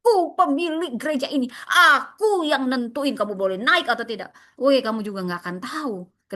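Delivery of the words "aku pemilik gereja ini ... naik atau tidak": lordly, self-important declaration; mock arrogance. Preacher imitates a proud church owner, arrogant. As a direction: act like you own the place. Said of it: "jangan sombong dan merasa".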